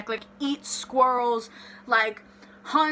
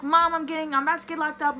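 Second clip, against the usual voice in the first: higher, whiny retold plea to mom; mock tearful pleading; 5 semitones higher, faster than usual. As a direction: imitate crying down the phone to mom. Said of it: "I'm crying. I'm on the phone".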